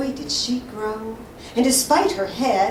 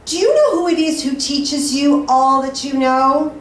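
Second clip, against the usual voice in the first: louder sneering troublemaker; taunting; 4 semitones higher, 7 dB louder than usual. Acted. Troublemaker taunts boy about his father, sneering. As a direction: jab the question at the boy.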